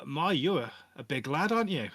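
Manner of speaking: impressed NPC. Acted. NPC marvels at Goliath, loud.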